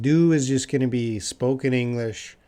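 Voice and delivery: ordinary talk, nothing marked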